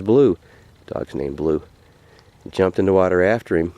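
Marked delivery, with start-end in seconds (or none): 0.0-0.4 raised call, falling at the end; storyteller acting a man's call to his dog. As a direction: call the dog's name out. Hunter calls to his dog.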